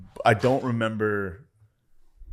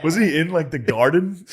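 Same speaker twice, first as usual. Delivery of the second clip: laughing while asking; 7 semitones higher, 5 dB louder than usual. Real, not acted. Laughing at Hymietown joke.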